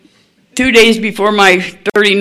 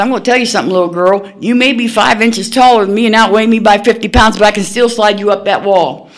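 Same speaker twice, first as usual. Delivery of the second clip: mild retold threat; 4 semitones higher than usual. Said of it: "and I said".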